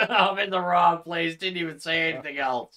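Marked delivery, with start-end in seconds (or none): 0.1-1.4 laughing through a mock repeat of his line; laughing imitation. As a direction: giggle while quoting him back. Mocking friend's awkward answer.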